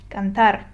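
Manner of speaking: cantar with firm stress on TAR; last syllable stressed. Shown as a demonstration. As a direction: land on the end of cantar. Teacher models the example word.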